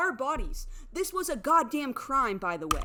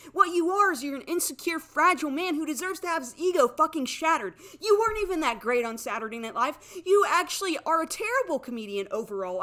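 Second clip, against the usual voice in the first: higher, louder, voice cracking with tears; crying rage; 4 semitones higher, 5 dB louder than usual. Real, not acted. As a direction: scream the insult through tears. Furious insults at Bowen.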